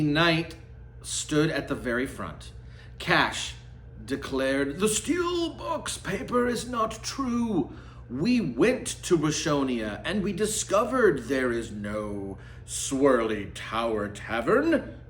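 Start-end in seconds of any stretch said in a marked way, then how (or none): 4.8-15.0 higher, deliberate proclamation to the court; solemn declaration. Acted. Cash declares before the court.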